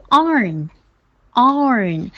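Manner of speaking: "arn" as a long ar closing on n; R plus n. Shown as a demonstration. Teacher models the new sound, long vowel into n. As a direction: hold the ar in "arn", then add n. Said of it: "然后再加嗯的".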